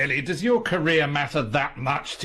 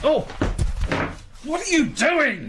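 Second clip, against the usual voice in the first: jolted by a stranger's grab; startled alarm. Acted. Writer grabbed by intruder in his room, high startled alarm.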